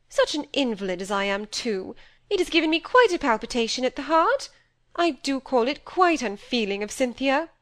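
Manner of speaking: a vain invalid nursing her grievance; fretful self-pitying mother. Acted. Mother complaining alone.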